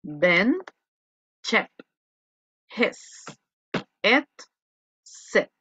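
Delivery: "bend, chep, hes, et, set" each with a soft short E; teacher drilling "chep" and "set" slowly with a soft E; word list read slowly, one word at a time, soft E on each; soft E vowel. Shown as a demonstration.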